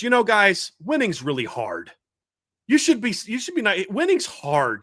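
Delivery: lightly mocking imitation, pitch jumping up on the openings. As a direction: retell a mock pep talk with exaggerated sincerity. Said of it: "just mocking Kelly".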